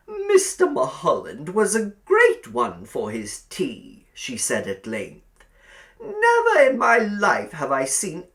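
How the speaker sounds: high, loud, cloying landlady voice; sugary old landlady. A narrator's reading. Landlady inviting Billy to sit by the fire, cloying. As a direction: coax him over like a spider.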